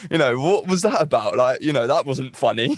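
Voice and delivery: cringing in the shower after a party joke; exasperated self-reproach. Retold or imitated. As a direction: replay the awkward moment with a half-laughing groan. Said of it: "I'm like".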